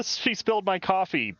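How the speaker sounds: quoting the ad. Retold or imitated. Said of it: "It's like the".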